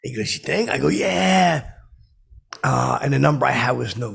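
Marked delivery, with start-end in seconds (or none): 0.3-0.7 "You think?" squeaked high; high doubtful. Retold or imitated. Elon's retold reply. 0.9-1.7 high, loud yeah; eager yeah. Retold or imitated. Eager answer.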